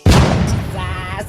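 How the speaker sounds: loud exclamation. Real, not acted. Exclaimed after song.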